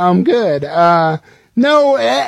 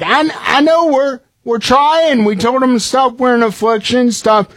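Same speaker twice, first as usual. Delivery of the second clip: higher, pleading parent voice; sheepish high-pitched apology from a parent; embarrassed parent pleading, higher; apologetic parent; 7 semitones higher than usual. Retold or imitated. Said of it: "you have to be like".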